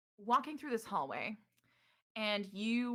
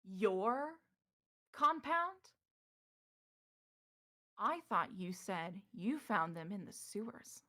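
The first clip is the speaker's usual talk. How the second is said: Morrow catching a lie; slower than usual. Acted. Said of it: "And Morrow says".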